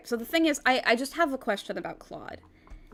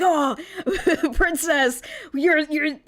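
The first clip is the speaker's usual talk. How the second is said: mocking Claude; 3 semitones higher, 3 dB louder than usual. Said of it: "he's like".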